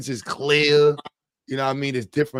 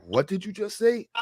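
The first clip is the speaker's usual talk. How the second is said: acted bafflement; 5 semitones higher, 7 dB quieter than usual. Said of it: "you be dead lost".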